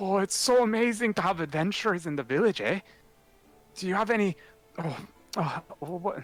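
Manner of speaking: stumbling, halting, fumbling search for words. Voicing a villager greeting adventurers: fumbling for words. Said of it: "grasping at nothing in the air as he's trying to, like, think of the words".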